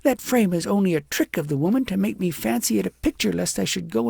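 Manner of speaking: lightly voiced resentful girl; indignant girl. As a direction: stir yourself up against the witch. Agnes rants against the witch.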